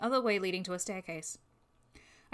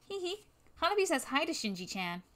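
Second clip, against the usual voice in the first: giggly arsonist; 5 semitones higher than usual. Acted. Arsonist giggles, greets Shinji.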